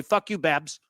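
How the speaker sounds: flat, offhand and unbothered; nonchalant quote. Retold or imitated. Player brushing off his coach, nonchalant. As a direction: toss it off as if it means nothing. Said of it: "his response would just nonchalantly look at".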